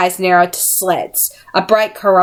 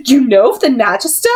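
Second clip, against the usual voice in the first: suspicious; 5 semitones higher than usual. Acted. Missus Dark startled.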